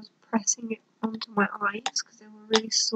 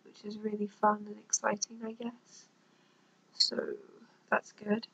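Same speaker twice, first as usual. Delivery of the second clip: monotone. Real, not acted. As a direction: talk as if about to shut down. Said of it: "You are literally talking like this".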